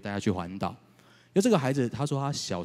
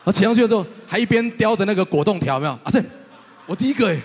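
excited; 10 semitones higher, 10 dB louder, faster than usual. Real, not acted. Excited retelling of the boy's win.

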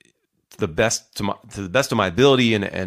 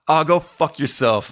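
raised mock-angry dismissal; aggressive retort; 6 semitones higher, 5 dB louder than usual. Online stranger firing back at his advice, mock aggressive. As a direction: imitate an aggressive comeback, higher and louder. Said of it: "really aggressive and just weird".

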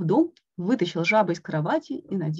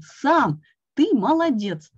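proud praise; 5 semitones higher, 6 dB louder, slower than usual. A narrator's reading. Frog praising Toad.

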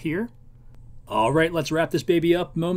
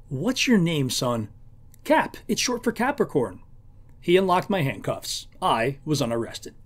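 story reading. A narrator's reading. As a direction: read the novel passage aloud, lightly voicing the characters. Reads novel passage aloud.

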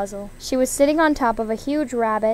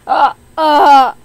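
loud imitated donkey bray; clumsy bray; 2 semitones higher, 12 dB louder than usual. A narrator's reading. Girl trying to bray for Donkey, loud clumsy bray. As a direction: bray out two loud honks. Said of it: "The girl brayed".

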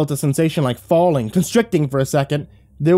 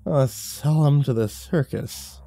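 put-on drunk man; 4 semitones higher, 4 dB quieter than usual. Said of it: "he said".

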